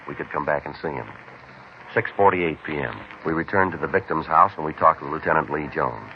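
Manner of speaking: flat, even, matter-of-fact case narration; police report narration. A narrator's reading. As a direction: read the log like a tired detective. Detective narrates case log.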